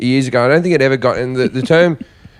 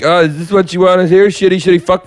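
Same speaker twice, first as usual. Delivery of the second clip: higher-pitched comic berating an audience; raised, mocking rant in another man's voice; Tom Stade impression; 5 semitones higher than usual. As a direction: imitate a comic sneering at the crowd. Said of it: "tell the audience that he hates".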